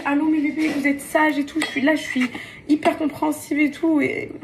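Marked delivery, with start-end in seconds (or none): 0.1-1.6 sweet phone voice. Retold or imitated. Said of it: "je les appelle à midi".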